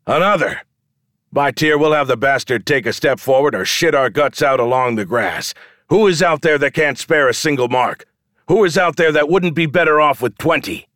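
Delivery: high, insistent call to a crowd; rallying shout. A narrator's reading. Showman demands another man step forward, rallying shout. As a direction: holler for the next challenger. Showman calling for more challengers.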